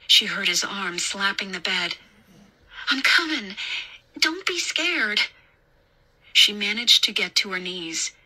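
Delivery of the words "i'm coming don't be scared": put-on higher voice, talking to a child; calm a scared boy as you approach; raised, reassuring tone; soothing babysitter. A narrator's reading.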